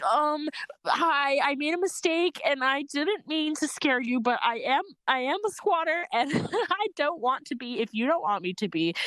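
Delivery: high, polite apology; nervous polite high voice; apologising to an old man, high and polite; most polite. Retold or imitated. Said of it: "in my, like, most polite, conjugated French".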